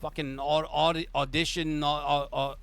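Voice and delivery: high, fumbling for a name; blustering boss who can't recall a rival; agitated mob boss. Acted. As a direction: boss venting at the player. GM voices Sal.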